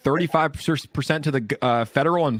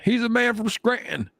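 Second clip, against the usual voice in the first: much higher, put-on hype voice on man; mock announcer voice; 10 semitones higher than usual. Streamer hyping Biden's hometown in a silly high put-on voice.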